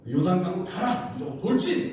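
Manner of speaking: loud, high barked command; a commander's mock charge order. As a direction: order them forward without pause. Acts God's command to priests.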